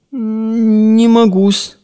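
put-on timid boy. Boy timidly answers master.

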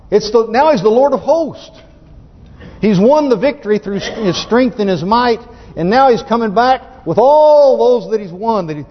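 exultant preacher, pitch jumping on key words; thrilled, stretching out the big words; excited preaching. Real, not acted. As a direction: proclaim the victory with real excitement. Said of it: "I tell you, it's exciting".

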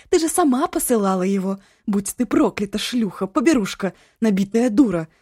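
furious mother screaming abuse, loud and high; angry shout. A narrator's reading. Mother screaming at her daughter on the phone, furious. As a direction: spit every insult at her. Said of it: "Злой крик".

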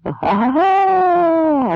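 very high, slow hammed-up roar of laughter. Cossacks all roaring together, in mock laughter. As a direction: laugh out like a whole crowd. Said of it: "ревнули всі разом".

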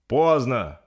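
loud, urgent exclamation; urgent cry. Acted. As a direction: call out that time is up. Captain urges killing stricken prince.

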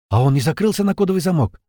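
frightened question. A narrator's reading. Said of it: "испуганно спросила девушка".

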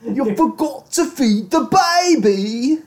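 high, loud mock British scolding; slow, squawking British caricature; hammed-up British shriek, words stretched; trashy British accent. Shown as a demonstration. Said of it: "a trashy British accent is the funniest".

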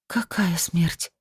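whispered and slow, barely squeezed out; forced-out whisper. Acted. Svetlana in shock asking the medium, barely whispering. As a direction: choke the words out in a whisper. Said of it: "выдавила она из себя".

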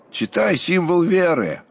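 slow, loud, stern monk's demand; monk at the gate refuses the official, sternly; stern command. A narrator's reading. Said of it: "грозный глаз монаха Аввакума".

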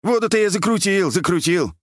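put-on high-pitched querulous old man; plaintive high old-man voice; whining old man. A narrator's reading. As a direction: complain in a high lamenting voice. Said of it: "продолжал ныть и причитать".

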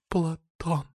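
soft, breathy high name; lustful soft exhale; breathed softly. A narrator's reading. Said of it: "выдыхает тихо Снежана".

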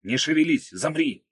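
man shouting to the wounded woman under fire. A narrator's reading. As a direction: bark the order to lie still. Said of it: "и крикнул".

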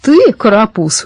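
mildly incredulous, stretched words; surprised. A narrator's reading. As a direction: marvel at the little upstart. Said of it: "удивился старшина".

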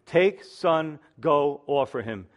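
"Take, son, go, offer him" in short separate beats; very emphatic. Shown as a demonstration. Preacher repeating God's command from the Hebrew, very emphatic. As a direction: stress each word of "Take, son, go, offer him", falling at the end. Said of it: "Very emphatic, very to the point".

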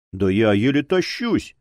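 mildly indignant protest; understated indignant grumble. Acted. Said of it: "возмутился повар".

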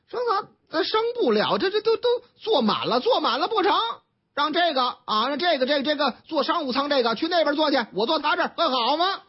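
a hint of an unreasonable passenger insisting on business class; mock pushy passenger.

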